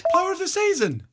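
高く上がる驚きの声で「Player of the Season」; surprised realization. Real, not acted. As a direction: Player of the Season with a sudden high-pitched rise.

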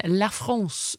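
La France said the French way; French pronunciation. Shown as a demonstration. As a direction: say La France with a French nasal vowel. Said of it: "Is that how they say it over there".

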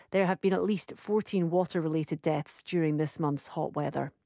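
steady formal news bulletin; news read. Acted. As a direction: read it like radio headlines. Host reads news bulletin.

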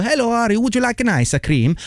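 hammed-up Italian accent; fake Italian accent. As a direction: greet kids like a jokey Italian ice cream seller. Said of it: "like he was pretending to be Italian".

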